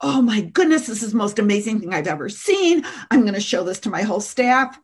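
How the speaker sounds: lightly voiced Oprah raving; gushing Oprah. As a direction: gush like a thrilled talk show host. Imitating Oprah's enthusiasm.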